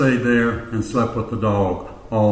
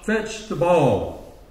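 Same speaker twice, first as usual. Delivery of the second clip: higher, drawn-out group command, lightly imitated; congregation in unison; 4 semitones higher, much slower than usual. Congregation urges the dog, lightly imitated unison command. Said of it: "stand up and in unison".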